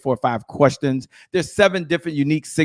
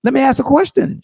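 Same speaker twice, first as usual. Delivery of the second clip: much higher, lightly acted; coach's question; 11 semitones higher, 3 dB louder than usual. Shown as a demonstration. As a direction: model the seller's calm question. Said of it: "I might say".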